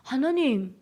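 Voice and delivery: plain-spoken plea in Hamgyong accent; rustic Hamgyong-accented prayer; Hamgyong dialect. Shown as a demonstration. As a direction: ask God why, with Hamgyong intonation. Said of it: "이런 말씨인 거예요".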